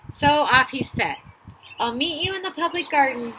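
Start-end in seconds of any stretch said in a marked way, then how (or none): 1.8-3.3 higher, louder storybook call; calling back over shoulder. A narrator's reading. Father duck calling back to his mate, cheerful parting call. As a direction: call it back as you head off. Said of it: "he quacked over his shoulder".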